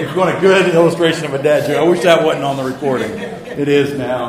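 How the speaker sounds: laughing at himself. Real, not acted. Laughing at his own dad joke.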